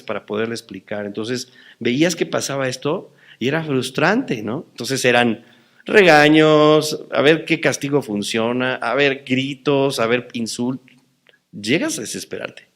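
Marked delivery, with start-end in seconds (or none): 5.9-7.0 mock scold. Listing scoldings.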